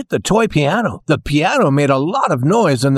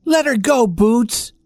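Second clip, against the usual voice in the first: slightly put-on, higher doll voice; dolls' plea; 9 semitones higher than usual. A narrator's reading. Dolls urging the kitten to free the mouse, higher-pitched plea. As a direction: lift the pitch lightly to urge. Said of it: "the dolls said".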